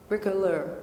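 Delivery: Bricoleur said the French way, not Southern; French pronunciation. Shown as a demonstration. For the asker, a careful French Bricoleur. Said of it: "And not with my southern accent".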